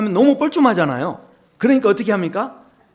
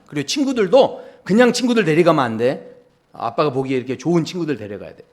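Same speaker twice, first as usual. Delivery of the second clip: stern father; 4 semitones lower than usual. Retold or imitated. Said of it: "아버지가 그러는 거예요".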